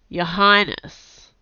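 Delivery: slow, loud warning tone. A narrator's reading. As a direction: caution her with the title. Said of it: "in a warning voice".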